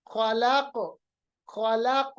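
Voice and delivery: खलक ending in a bounced q; qalqalah. Shown as a demonstration. Teacher demonstrates the returning sound, खलक with echoing q. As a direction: bring the sound back after the q of खलक. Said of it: "आवाज को मैं वापस ला रहा हूं".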